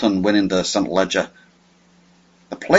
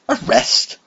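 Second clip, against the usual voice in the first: arrest breathed out softly in disbelief; quiet disbelief; 8 semitones higher than usual. Acted. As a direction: whisper arrest, stunned. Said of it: "he looked really shocked".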